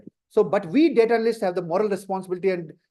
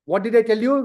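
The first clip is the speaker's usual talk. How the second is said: ordinary delivery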